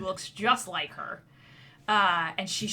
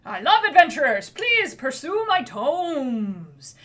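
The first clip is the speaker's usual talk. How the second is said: put-on boy wizard; 2 semitones higher, 5 dB louder than usual. Little dwarven boy introduces himself to adventurers. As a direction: puff up like a kid playing Grandmaster.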